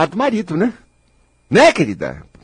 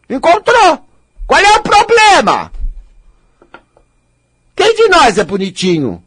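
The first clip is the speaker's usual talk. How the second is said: mock shrug; 10 semitones higher, 4 dB louder than usual.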